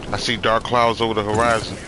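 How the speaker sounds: ominous villain line; lightly voiced movie villain. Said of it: "he said it like a villain".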